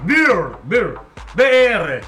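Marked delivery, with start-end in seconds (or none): 0.0-1.0 "Beer" drawn out slowly with a rounded vowel; demonstrated pronunciation. Shown as a demonstration. Showing the listener how to say Beer, slow demonstration. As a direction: stretch "Beer" to show how it sounds. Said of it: "Así, mirá".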